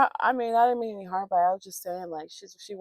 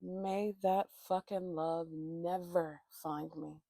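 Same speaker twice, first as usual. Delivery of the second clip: slow solemn vow; 2 semitones lower, 4 dB quieter, slower than usual. Real, not acted. Solemn vow after rant.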